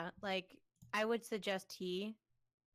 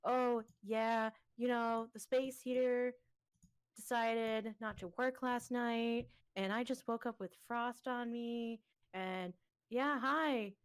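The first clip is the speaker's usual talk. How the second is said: slow, drawn-out imitation of a groggy friend; mock a sleepy caller, stretching the words out; imitated friend; 3 semitones higher, much slower than usual. Friend explaining the broken space heater, imitated slowly. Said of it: "He's like".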